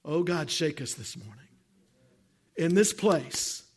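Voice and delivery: earnest pleading prayer with long pauses between lines; fervent prayer. Acted. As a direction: call on God to shake the church, phrase by phrase. Prays aloud in service.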